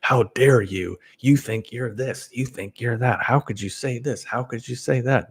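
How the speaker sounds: high mock outrage; indignant critics. Imitating angry viewers writing in, high mock outrage. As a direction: pitch it up and scold in mock indignation. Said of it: "people write to me and are like".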